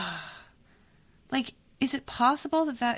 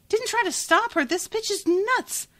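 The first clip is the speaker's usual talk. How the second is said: incredulous repeat; 13 semitones higher than usual. Real, not acted. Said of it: "I'm so mad".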